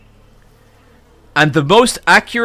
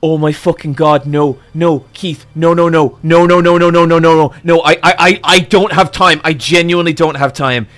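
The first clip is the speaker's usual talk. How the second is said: panicked refusal. Retold or imitated. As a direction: plead in a rising panic, no no no. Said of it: "I'm losing my mind".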